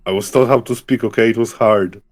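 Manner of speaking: a hint of a low, gruff beast. Beast in a visual novel answering the girl, lightly voiced. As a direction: speak as a lonely beast who learned human words.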